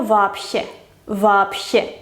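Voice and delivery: "вообще" with б as voiceless p; devoiced consonant. Shown as a demonstration. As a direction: say "вообще" as vapshe. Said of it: "su pareja es la P".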